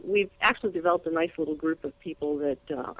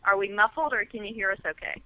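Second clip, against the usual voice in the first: muffled over a speakerphone; 2 semitones higher than usual. Real, not acted. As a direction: talk through a phone on speaker. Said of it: "you're a little muffled".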